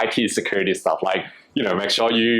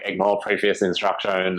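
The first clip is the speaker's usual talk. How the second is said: flat, even robotic delivery; 2 semitones lower than usual. Pretend. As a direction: read it out like a machine. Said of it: "I don't know why I'm doing a robot voice".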